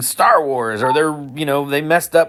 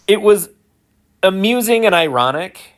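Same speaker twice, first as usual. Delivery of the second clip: higher-pitched, laughing as you talk; amused laughing; 7 semitones higher than usual. Real, not acted. Explaining the irony of the clouded eclipse, laughing. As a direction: let a real laugh break up the sentence. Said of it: "I chose to laugh".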